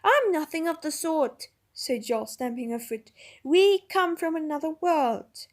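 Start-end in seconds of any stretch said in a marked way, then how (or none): 0.0-1.5 slow, loud, higher protest; indignant girl. A narrator's reading. Jill stamps her foot. 3.4-5.5 slow, loud, higher protest; indignant girl. A narrator's reading. Jill insists.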